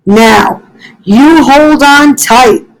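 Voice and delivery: firmly but gently tell the leaf to hold on; Fletcher giving orders. Acted. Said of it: "said Fletcher".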